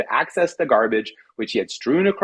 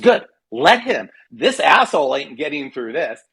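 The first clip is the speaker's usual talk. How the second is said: mock snap. Wife bolting the barrier, snapping at husband, mild mock snap. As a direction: snap back at him, lightly acted. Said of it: "My wife snapped".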